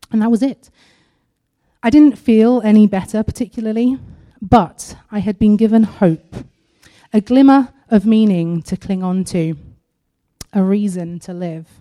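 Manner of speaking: measured, deliberate read-aloud with pauses; earnest prepared testimony, phrase by phrase. Acted. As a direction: read your written story out with care. Reads her written testimony aloud.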